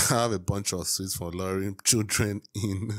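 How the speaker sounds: repeating through laughter; tickled, holding back giggles; amused. Real, not acted. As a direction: laugh breaking in before and after.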